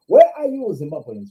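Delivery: loud, exasperated call to absent Zimbabweans. Real, not acted. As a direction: shout out for the missing fans. Calling out to absent viewers.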